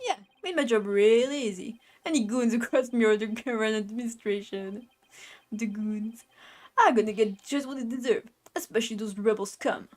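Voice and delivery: lightly voiced Brooklyn tough guy; Brooklyn accent. Justice minister to a nosy lawyer, light Brooklyn accent. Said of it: "a Brooklyn accent".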